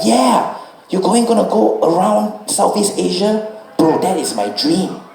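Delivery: high, slow wistful voice of the driver; dreamy bike rider. Retold or imitated. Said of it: "And he was like".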